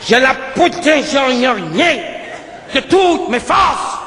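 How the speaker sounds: slow vow building to a shout on toutes; hero vow shout. Retold or imitated. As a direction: start firm, then cry out de toutes mes forces. (serment qui monte jusqu'au cri sur « toutes »)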